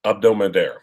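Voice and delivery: "Abdo Mader" opening straight on the vowel; silent H. Shown as a demonstration. Echoing the co-host's correction, trying the silent-H pronunciation. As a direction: try "Abdo Mader" without any H sound. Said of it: "So the H is silent".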